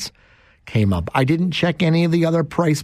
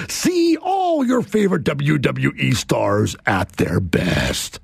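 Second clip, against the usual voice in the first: breathy hushed whisper; slower than usual. Shown as a demonstration. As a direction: drop to a secret whisper. Whispered end of announcer read.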